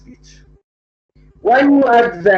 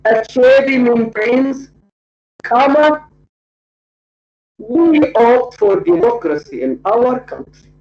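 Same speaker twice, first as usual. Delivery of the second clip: dictating. Shown as a demonstration. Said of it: "I can say".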